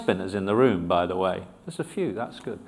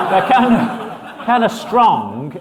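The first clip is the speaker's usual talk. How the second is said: laughing, drawn out; 8 semitones higher, 6 dB louder, much slower than usual. Real, not acted. Laughs describing hands.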